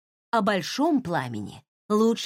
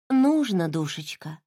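gently affectionate, fond; 4 semitones lower than usual. Acted. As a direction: speak fondly, like to a beloved sister. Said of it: "Слова прозвучали ласково". (ласково, с нежностью)

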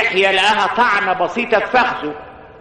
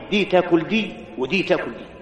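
softer and lower, unbothered and calm; calm and quiet; 5 semitones lower, 6 dB quieter than usual. A narrator's reading. Slave answers the furious Zanati in a calm, quiet voice. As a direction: answer the shouting warrior calmly and low. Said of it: "بل قال في هدوء".

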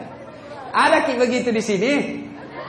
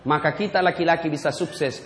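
ordinary talk

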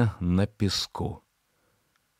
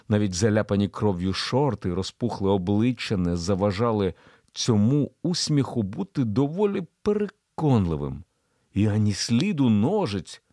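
usual speaking voice

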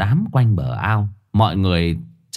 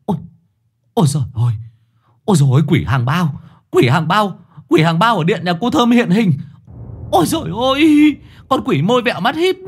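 terrified shriek; 9 semitones higher, faster than usual. Acted. Frightened woman shrieking at a swollen-faced ghost, very high. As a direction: shriek at the monster in terror, faster. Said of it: "gào lên".

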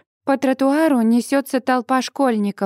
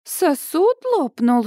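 «Сосуд лопнул?» slow and high with a questioning rise; astonished echo; 6 semitones higher, slower than usual. A narrator's reading. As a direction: repeat it in stunned disbelief. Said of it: "у неё даже сосуд лопнул". (ошеломлённо переспросить «Сосуд лопнул?», медленно и высоко)

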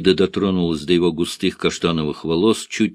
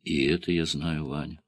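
со вздохом; 5 semitones lower, 6 dB quieter than usual. A narrator's reading. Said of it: "вздохнула она".

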